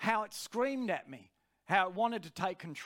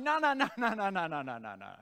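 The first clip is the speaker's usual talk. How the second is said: mock screaming flesh; faster than usual. Preacher's flesh screams for food, a mock wail dying away. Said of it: "screaming at me for food and going".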